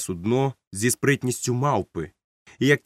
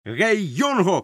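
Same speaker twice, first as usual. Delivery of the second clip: high, swooping call; shouted hail; 7 semitones higher, much slower than usual. A narrator's reading. Captain hails the cabin boy, shouting. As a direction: call out to someone across the deck. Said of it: "крикнув він".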